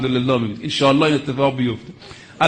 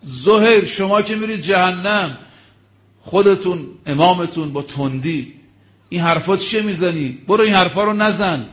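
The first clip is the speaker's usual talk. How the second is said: mock shout; 4 semitones higher than usual. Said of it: "اومد فریاد زد".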